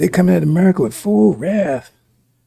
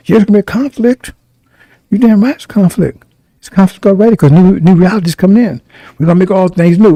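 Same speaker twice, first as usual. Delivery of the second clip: fired-up preaching; 3 semitones higher, 5 dB louder than usual. Real, not acted. Preacher rising to full force.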